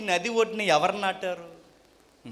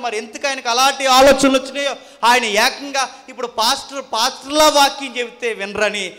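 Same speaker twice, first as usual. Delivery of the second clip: raised, driving sermon voice; forceful preaching; 7 semitones higher, 10 dB louder than usual. Real, not acted. Preacher reporting a pastor's idea to congregation, forceful preaching. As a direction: preach it insistently to the hall.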